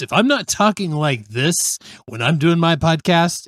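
a touch of his podcast announcer voice; slightly polished broadcast delivery; radio voice. Shown as a demonstration. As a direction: lightly put on the radio host read. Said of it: "I've gotta completely change my voice".

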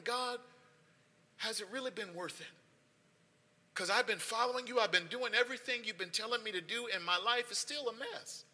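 softly voiced doubt to God; hurt, bitter wondering. Weary believer questioning God about obedience, hurt and quiet. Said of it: "there's bitterness, there's, there's hurt, there's wondering".

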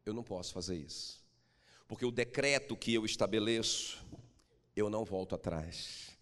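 low, firm royal refusal; stern king. Acted. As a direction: refuse like a king who cannot yield. King Assuero answers firmly. (rei firme e grave)

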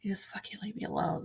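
fast, angry whispered curse; furious whisper. Retold or imitated. Mother in grief whispering angrily at hovering nurses. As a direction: spit it out under your breath, seething. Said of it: "I was so mad. I was like".

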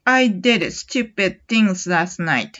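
very slow, deliberate model reading; slow example sentence. Shown as a demonstration. Teacher models the sentence slowly for learners. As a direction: lay out each word slowly. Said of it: "ちょっと例を挙げます".

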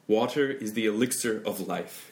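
slow, grand reading with a crisp t in Water; recited slowly. Shown as a demonstration. Teacher shows a formal recitation to the student, slow and crisp. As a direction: read it out like a solemn line of poetry. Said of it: "낭독할 때".

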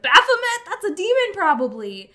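high, loud mock alarm. Retelling a history tangent to a friend, high mock alarm. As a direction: squeal it in mock horror. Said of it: "someone was like".

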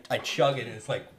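loud drinking between words; sipping through a straw. Real, not acted. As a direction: talk just after a gulp. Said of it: "sorry if I'm drinking too loud".

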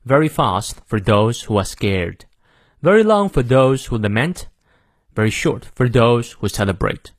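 measured British accent with long "ah" in fast; British pronunciation. Shown as a demonstration. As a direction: read it in careful British accent, dropping R's. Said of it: "再来一遍英式发音".

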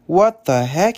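a startled "What the heck?" with a rise at the end; lightly startled "What the heck?" on a rising tune; surprised exclamation. Retold or imitated. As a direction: blurt out "What the heck?" as if caught off guard. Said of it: "he said".

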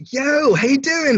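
high, slow, sing-song greeting; mock cheery greeting. Greeting a meditation student, mock high cheery voice. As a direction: greet him like an old buddy.

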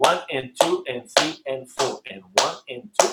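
steady even counting in fours; even duple count. Shown as a demonstration. Teacher counting even quarters to the student. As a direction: count the beats evenly, one and two. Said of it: "שעל כל רבע יש לנו".

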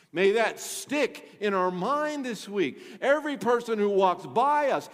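emphatic preaching, key words punched; forceful preaching. Real, not acted. Pastor urging the church to remember salvation is for all, forceful preaching. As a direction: preach it with conviction.

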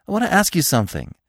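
panting. Acted. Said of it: "Bambi panted".

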